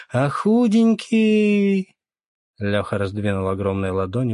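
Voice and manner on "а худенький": high, slow mocking squeak; mock him in a squeaky drawl; teasing squeak. Lyokha teasing the captain about being skinny, high and slow.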